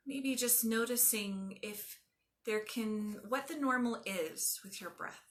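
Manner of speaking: calm, measured yoga nidra voice with long pauses; guided meditation. Acted. Teacher guiding a class through yoga nidra, calm guided meditation. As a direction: ease them into stillness, letting phrase endings soften.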